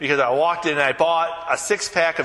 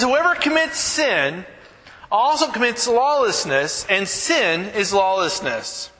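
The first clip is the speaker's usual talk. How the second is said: slow, measured reading of the verse; scripture reading; 4 semitones higher than usual. Acted. Pastor reading First John to the congregation, measured scripture reading. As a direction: read the scripture with weight, lifting the opening.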